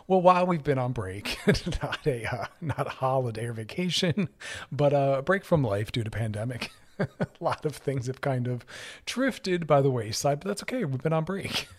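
real laughter breaking into the words; trying to get it out while laughing. Real, not acted. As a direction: keep talking through fits of amused laughter. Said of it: "Sorry, I'm laughing".

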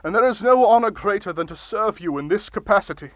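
grand, pompous speechmaking; blustery pompous mayor. Acted. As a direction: deliver it like a self-important ruler. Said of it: "Can you maybe not shout".

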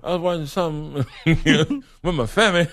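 laughing. Real, not acted. Laughs while admitting crying.

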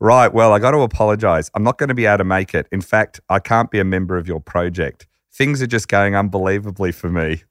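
breeze through it, lightly voiced Trump; breezy Trump quote. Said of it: "I'm not gonna do a Trump impression".

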